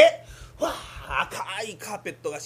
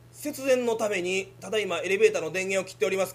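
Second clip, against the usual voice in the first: mock elevator announcement; 4 dB louder than usual. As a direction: play the building's announcement system.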